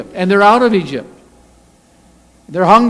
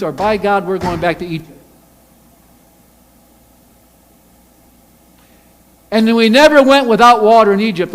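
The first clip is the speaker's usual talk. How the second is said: angry ultimatum; 3 semitones higher, 7 dB louder than usual. Acted. Crowd threatening Moses.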